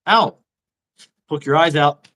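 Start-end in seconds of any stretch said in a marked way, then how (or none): 0.1-0.4 puppet voice. Pretend. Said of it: "Bonesy's gonna talk".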